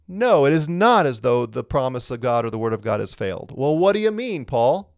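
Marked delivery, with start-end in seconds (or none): 0.1-3.5 "no" and "not" hit firmly; emphatic no. Shown as a demonstration. Teacher giving Paul's answer, emphatic denial. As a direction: deny it with weight on "not". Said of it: "His answer is emphatically".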